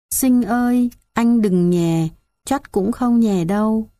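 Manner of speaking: put-on high, slow, weak little child's voice calling her brother; a feverish toddler whimpering for her big brother; sick little girl. Dying little sister tells brother Sinh she is cold, high and weak.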